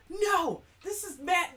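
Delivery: a retold flare of frustration; exasperated protest. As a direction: protest it as if everyone else is crazy. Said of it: "And I'm like".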